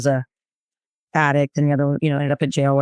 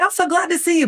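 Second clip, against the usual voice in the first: high, sugary fake welcome; faked delight; 12 semitones higher than usual. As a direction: gush while secretly annoyed. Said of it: "but I'm really upset".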